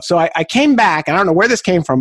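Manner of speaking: usual speaking voice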